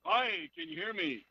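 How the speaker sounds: hollow echoing phone line; cave echo. Real, not acted. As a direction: caller sounding like inside a cave. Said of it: "You sound like you're in a, a cave".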